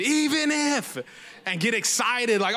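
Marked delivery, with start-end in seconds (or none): 0.0-1.0 high, fired-up "Even if"; going in on it. Retold or imitated. Preacher recalling how he used to read "Even if", fired up and high. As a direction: hit "Even if" like it's a battle cry. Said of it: "I used to go in on it".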